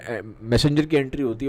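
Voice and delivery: ordinary talk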